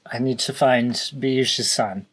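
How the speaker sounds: put-on slow, tipsy drunk voice. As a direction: talk slowly like you're drunk. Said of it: "You get the drunk no-, voice already".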